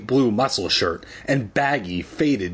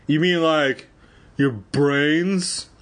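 exclaiming; 4 semitones higher, much slower than usual. A narrator's reading. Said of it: "Conan exclaimed".

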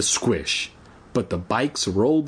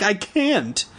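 choked with panic; 9 semitones higher than usual. A narrator's reading. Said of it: "choked with panic".

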